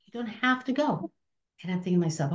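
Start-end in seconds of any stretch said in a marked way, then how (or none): 0.1-1.1 kind nun's reply, pitched higher. Retold or imitated. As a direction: gently let the girl off, a nice nun. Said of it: "they were very nice".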